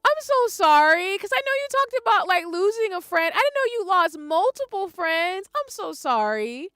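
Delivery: high, tearful apology; sorry through real tears; crying apology. Real, not acted.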